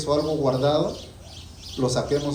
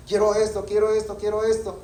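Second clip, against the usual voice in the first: put-on tantrum child; 4 semitones higher than usual. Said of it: "Y empieza a hacer berrinches".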